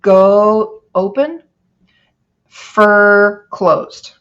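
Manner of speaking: "Go" and "fur" said slowly as two parts; syllables split. Shown as a demonstration. Teacher splitting "gopher" into syllables for the class. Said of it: "How about gopher".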